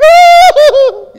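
put-on loud high wail of a child; child's wail. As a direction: wail like a kid about to be spanked. Pleading as a child.

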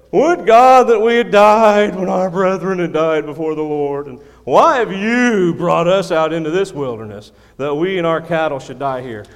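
loud, high, aggrieved people shouting at their leader; a crowd in his face demanding water; the congregation yelling at Moses; loud complaining crowd. Acted. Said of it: "they just moaned and complained".

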